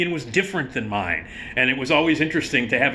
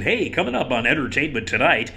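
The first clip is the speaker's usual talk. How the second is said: mock TV host. Shown as a demonstration. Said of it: "like, T V friendly".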